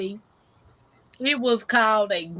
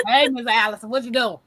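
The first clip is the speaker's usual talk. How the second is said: mild mock loud call. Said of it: "talking real loud".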